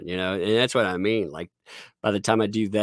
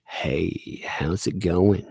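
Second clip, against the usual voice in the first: sexy voice; 3 semitones lower, much slower than usual. Shown as a demonstration. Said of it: "Can you do sexy voice?".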